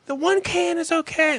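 high mock girlfriend voice; squeaky imitation of his girlfriend; imitating girlfriend. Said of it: "She's like".

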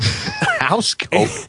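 very high, disbelieving; incredulous squeak. Real, not acted.

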